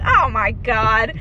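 slow drawn-out "Oh my God"; mock exasperation. Doctor groaning at the joking patient, slow. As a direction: stretch it out exasperated. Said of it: "She's like".

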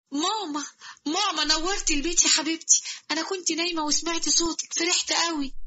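put-on a happy girl welcoming her mom; sweet daughter voice. Shams greets mother.

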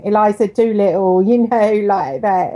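light Cockney imitation of a school friend; mock Cockney. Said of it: "at school who talked like that".

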